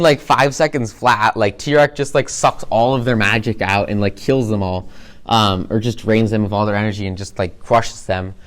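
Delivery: normal talking voice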